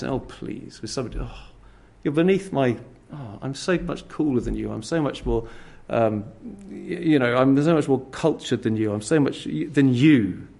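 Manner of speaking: soft, sneering put-down, nose in the air; mock snobbish scorn. Preacher imitating someone scorning another, softly sneering. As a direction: act superior to someone beneath you. Voicing scornful dismissive attitude.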